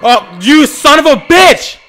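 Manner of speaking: high, loud half-laughing cry; laughing outrage. Real, not acted. Player cursing at the game character, laughing in outrage. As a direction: laugh through the frustration.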